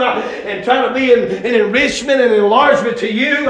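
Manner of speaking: forceful preaching. Real, not acted.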